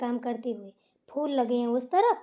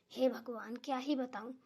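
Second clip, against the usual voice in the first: much softer, lower, resigned sigh; 3 semitones lower, 10 dB quieter than usual. Acted. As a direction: give up on yourself with a sigh. Mother sighs at her own foolishness. (धीमी थकी आह)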